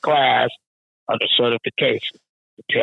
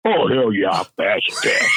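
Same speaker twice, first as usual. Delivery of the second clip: mock confident worker; 2 semitones lower than usual. Worker boasts he'll pass.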